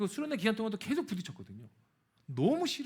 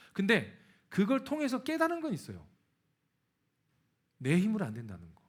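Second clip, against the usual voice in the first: ordinary delivery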